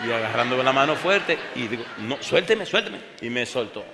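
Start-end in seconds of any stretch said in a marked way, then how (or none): 2.0-3.0 high, loud let-me-go; urgent protest. Retold or imitated. Preacher telling the dying man to let go, loud. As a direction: pull free, insisting. Preacher pulls free from grip.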